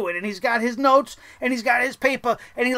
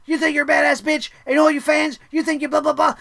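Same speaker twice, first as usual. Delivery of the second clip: mock ranting; 4 semitones higher, 4 dB louder than usual. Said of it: "it's just like".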